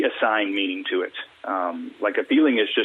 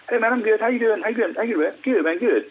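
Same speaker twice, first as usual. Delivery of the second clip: high-pitched, automatic exchange of pleasantries; mock small talk; 11 semitones higher than usual. Men swapping meaningless greetings, mock-cheery small talk. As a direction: parody two guys trading empty hellos. Mimics empty back-and-forth greetings.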